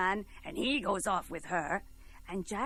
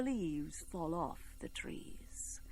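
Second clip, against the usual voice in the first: hushed whisper; 6 semitones lower, 12 dB quieter, much slower than usual. A narrator's reading. Narrator drops to hush.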